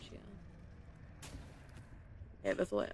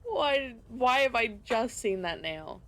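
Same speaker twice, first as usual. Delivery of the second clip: exasperated; 4 semitones higher, 5 dB louder, slower than usual. Real, not acted. Exasperated at missed coral.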